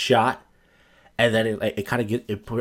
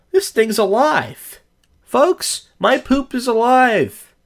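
higher, louder, slow freaked-out announcement; alarmed excitement; 11 semitones higher, 5 dB louder, much slower than usual. Retold or imitated. Telling listeners the poop moved, higher, louder mock alarm. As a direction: sound the alarm as if it's alive.

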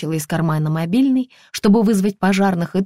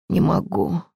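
ordinary delivery

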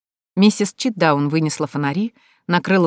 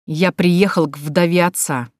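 through gritted teeth; slower than usual. Acted. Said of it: "сквозь зубы процедил граф".

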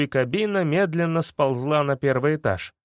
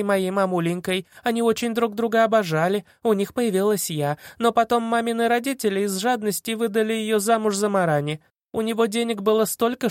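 high, gushing storytelling; inspired fib; 5 semitones higher than usual. Acted. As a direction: rattle off the tale eagerly. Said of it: "вдохновенно пела соловьём".

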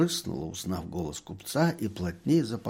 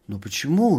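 more surprised whisper; 4 semitones higher, 4 dB louder than usual. A narrator's reading. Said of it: "ещё удивлённей шепчет доктор".

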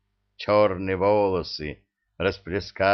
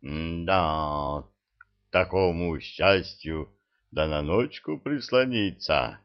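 low, slow creature leer; lecherous creature voice; 3 semitones lower, slower than usual. Acted. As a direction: drawl it like a leering goblin. Creature Zyrk agreeing from closet.

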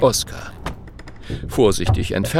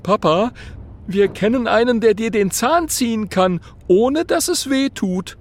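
put-on high, eager child's voice; a little boy pleading with his dad; young dragon boy; 12 semitones higher, 3 dB louder than usual. A narrator's reading. Dragon son urges his father, eager high boy voice.

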